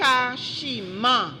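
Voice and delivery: careful spelling bee announcement; dictating a word. Real, not acted. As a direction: repeat the word slowly for a speller. Word repeated for spelling bee contestant.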